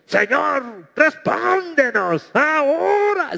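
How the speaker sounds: high, drawn-out imitation of someone yelling at God; mock shouted prayer. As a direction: ham up a prayer as if God were deaf. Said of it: "hay gente que cuando ora hasta grita".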